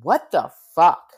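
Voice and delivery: loud, slow, shocked outburst; indignant yell. Retold or imitated. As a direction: blurt it out, appalled. Retold outraged reply.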